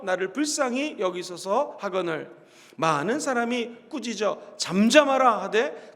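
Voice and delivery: slow, measured reading aloud of scripture. Acted. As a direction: read the verses slowly, like a congregation reciting together. Congregation reads scripture together.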